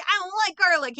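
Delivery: high, loud petulant whine; whiny mock vampire woman. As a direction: pout it out like a picky vampire. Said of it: "she's like".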